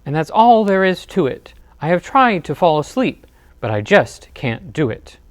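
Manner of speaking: moderately loud grumbling; grumpy bear. Acted. Bear complaining to his friends he can't sleep, grumpy. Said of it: "roars Bear".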